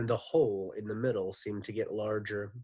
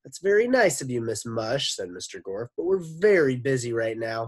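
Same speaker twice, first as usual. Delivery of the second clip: high, loud polite gentleman; pleasant Scottish voice; 8 semitones higher, 8 dB louder than usual. Acted. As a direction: brush her off politely. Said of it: "pleasant voice he stole".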